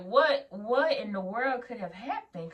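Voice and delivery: drawn-out anxious wondering; worried. Retold or imitated. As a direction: stretch it out, mock-worried. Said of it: "Like, I'm worried".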